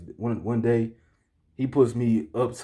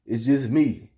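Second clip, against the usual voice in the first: a touch of defensive protest, slightly raised pitch; retold attitude; 2 semitones higher, 4 dB louder than usual. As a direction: push back with mild indignation. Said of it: "I caught an attitude with him".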